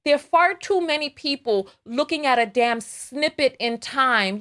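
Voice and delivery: ordinary delivery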